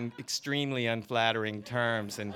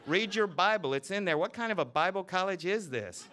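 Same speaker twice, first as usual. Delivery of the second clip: higher, scornful scolding; exasperated scolding; 10 semitones higher, 3 dB louder than usual. Acted. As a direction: berate him. Teacher berating the reverend.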